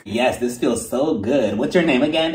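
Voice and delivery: low, drawn-out mock moan of pleasure; hammed-up sultry impression; Erica. Client on the stretching table, mock sultry. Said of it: "she was laying there like".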